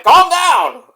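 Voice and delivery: high, loud "calm down"; mock scolding. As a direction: play the annoyed colleagues. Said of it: "And they're like".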